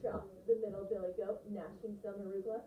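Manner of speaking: put-on lively storyteller reading to children; expressive read-aloud. Shown as a demonstration. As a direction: read with full voice and shaped phrases. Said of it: "think about voice as I read this".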